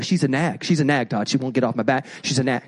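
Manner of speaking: a hint of a sulky husband complaining; griping husband. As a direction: grumble it like a worn-out husband.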